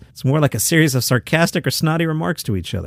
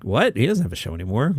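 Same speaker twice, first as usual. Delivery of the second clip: mock puzzled reply; 4 semitones lower, 5 dB quieter than usual.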